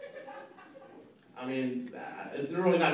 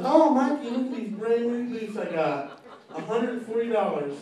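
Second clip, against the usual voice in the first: put-on higher girly voice, lightly done; girl showing off; 6 semitones higher than usual. Date showing Mikey her new boots, mild girly lilt. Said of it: "she goes".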